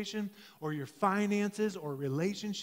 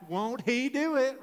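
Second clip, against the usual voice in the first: higher, lightly put-on Texan accent; Texas accent; 5 semitones higher than usual. Shown as a demonstration. Preacher telling online viewers what to type, Texas accent. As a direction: prompt them with a mild Texas twang. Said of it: "let's say it with a Texas accent".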